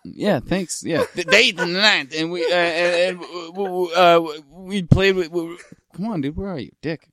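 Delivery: high, loud, stammering soul-singer hype; mock soul-singer hype voice, high and loud; soul-singer impression. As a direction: stammer it out like a hyped-up soul man. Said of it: "I went full soul singer".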